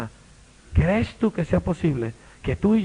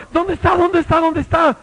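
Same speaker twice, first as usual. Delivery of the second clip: eager searching; 12 semitones higher, 7 dB louder than usual. Acted. Healed man runs searching.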